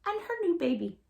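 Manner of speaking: put-on gentle read-aloud for little kids; storytime narration. A narrator's reading. Teacher reading a picture book to her class, gently. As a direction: tell it like a bedtime story.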